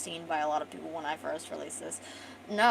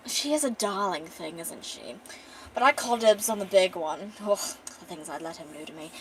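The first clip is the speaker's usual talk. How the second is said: posh. Acted. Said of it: "he's really, like, posh".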